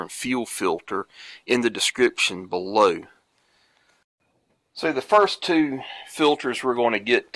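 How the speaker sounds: congested, a little nasal; stuffy nose. Real, not acted. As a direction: talk through blocked sinuses. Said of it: "I sound like I'm congested and a little nasally".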